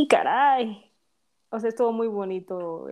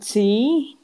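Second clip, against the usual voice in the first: whisper; 5 dB louder, much slower than usual. Real, not acted. Emphatic agreement, whispered.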